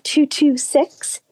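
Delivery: slow, careful phone number; slowly dictating a phone number; slow enough to write down. Real, not acted. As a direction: read out the digits slowly, group by group. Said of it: "I'll try to say it slow enough".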